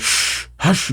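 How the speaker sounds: a quick, breathy shush up high; hushing whisper. Acted. Retainer shushing his young lord in a whisper. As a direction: hush him without making a sound.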